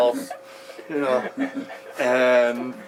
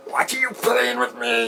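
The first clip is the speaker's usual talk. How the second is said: higher, startled inner cry; as if caught off guard, blurting it out; panicked inner voice; 12 semitones higher than usual. Retold or imitated. Disciple's mind shocked by guru's question, high startled blurt. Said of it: "my mind was like".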